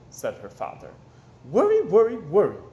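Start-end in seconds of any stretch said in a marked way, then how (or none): 1.5-2.6 louder, higher teasing repeat; tut-tut like a doting grandma; grandmother's chiding. Acted. The grandmother teases Wemberley about worrying, louder. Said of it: "said her grandmother".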